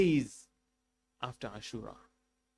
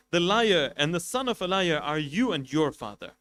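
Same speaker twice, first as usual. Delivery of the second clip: raised, defiant voice, louder; defiant retort; 3 semitones higher, 5 dB louder than usual. Acted. Companion defying the governor in his court, loud and defiant. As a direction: fling the insult back in his face. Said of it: "So he stands up and he says".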